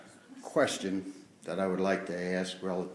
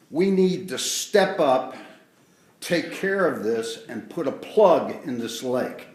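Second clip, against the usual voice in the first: louder, higher urgent call to act; rally the room to step up; forceful demand; 4 semitones higher, 6 dB louder than usual. Real, not acted. Public comment demanding action.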